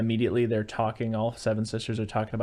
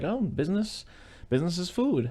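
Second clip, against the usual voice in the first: high-pitched, airy fib; evasive answer; 7 semitones higher than usual. Retold or imitated. Brother-in-law asks about work, evasive answer. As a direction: toss it off high, covering up.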